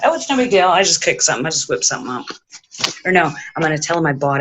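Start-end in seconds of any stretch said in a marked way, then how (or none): 0.1-2.2 fake casual. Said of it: "we're gonna pretend that".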